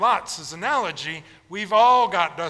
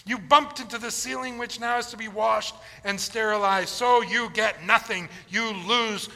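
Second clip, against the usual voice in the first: higher, rattled-off fake Latin; higher mock-legal Wonka, rattling it off; mock legalese; 5 semitones higher than usual. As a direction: ham up Wonka's mumbo-jumbo.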